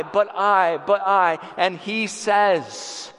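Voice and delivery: rising, impassioned preacher's cadence; preaching. Acted. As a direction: preach it with growing fervour to the hall. Preaching Christ's promise.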